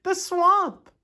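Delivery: put-on very high, loud kid's wail; alarmed cry. A narrator's reading. Kid recognising the dreaded substitute, alarmed. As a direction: cry out like a startled pupil. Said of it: "cried the kid".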